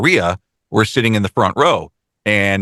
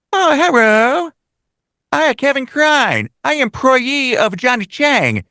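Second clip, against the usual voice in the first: much higher, hammed-up broken Chinese accent; mock broken Chinese accent. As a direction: put on a cartoonish broken Chinese accent to the guests. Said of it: "doing the broken Chinese accent".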